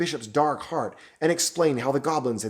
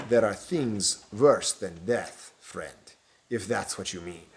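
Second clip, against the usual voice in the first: slow, sinister stranger trailing off low; ominous villain; 3 semitones lower, slower than usual. Acted. Stranger warning the bishop, slow and sinister. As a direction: let the threat sink in slowly.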